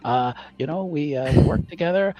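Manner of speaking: flustered stammer. Acted. GM voicing flustered Max.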